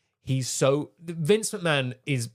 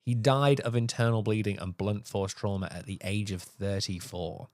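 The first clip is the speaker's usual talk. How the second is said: lower, subdued delivery; solemn account; 4 semitones lower, 4 dB quieter than usual. Real, not acted. Podcaster telling co-host of a wrestler's fatal fall, sombre. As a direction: report the tragedy gravely and quietly.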